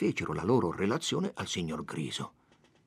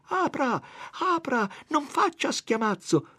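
shouting. A narrator's reading. Don Abbondio yelling through the door, high shout. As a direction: yell at the door, begging him to open.

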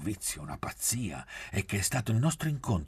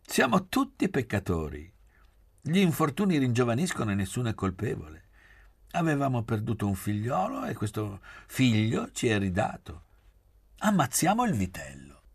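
high, loud mock proclamation; lively exclamation; 5 semitones higher, 5 dB louder than usual. A narrator's reading. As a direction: declare it to the whole table, high and loud. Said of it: "esclamò".

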